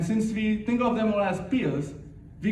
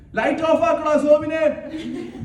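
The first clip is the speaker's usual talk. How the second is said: higher, louder, slow mock mother yell; imitating mom shouting; 10 semitones higher, 7 dB louder, much slower than usual. Mother yelling at the kid to switch off the lights, mock shout. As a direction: call across the house like a strict mom. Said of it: "I can hear my mom shouting".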